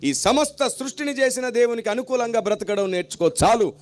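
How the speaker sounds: rhythmic preacher's build-up, repeating each clause; preaching. Acted. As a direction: proclaim it from the pulpit. Opening gospel proclamation.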